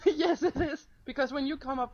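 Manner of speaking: giggling high and loud; laughing. Real, not acted. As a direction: insist through laughter. Laughing insistence.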